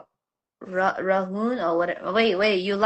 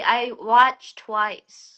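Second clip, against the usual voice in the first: Indian accent; much slower than usual. Real, not acted. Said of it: "Why is the accent coming out?".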